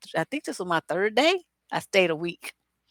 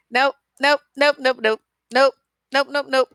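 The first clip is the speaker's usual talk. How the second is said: rapid-fire louder refusal, nope after nope; emphatic nopes; 5 semitones higher, 4 dB louder than usual. Real, not acted. Refusing flat out to date an illegal immigrant, emphatic. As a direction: shut it down hard, nope after nope. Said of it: "That's like all the nopes in the world".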